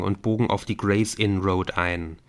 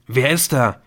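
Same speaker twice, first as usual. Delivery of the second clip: loud, higher-pitched angry demand; bellowing; 4 semitones higher, 7 dB louder than usual. A narrator's reading. Man answering a threatening phone call, bellowing. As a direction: bellow it down the line. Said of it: "einen Mann am anderen Ende der Leitung brüllen".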